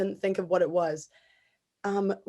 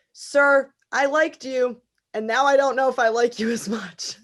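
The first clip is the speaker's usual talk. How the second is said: mock indignation; 4 semitones higher, 5 dB louder than usual. Retells telling off fake-accent contestant.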